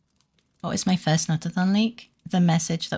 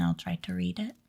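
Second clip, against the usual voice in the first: holding back a hiccup; swallowing a hiccup mid-sentence; suppressing hiccups; 6 dB quieter than usual. Real, not acted. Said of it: "Sorry, hiccup".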